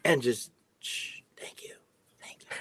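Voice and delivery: whispered hush; shushing whisper. Retold or imitated. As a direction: shush them quietly. Shushing someone mid-cooking.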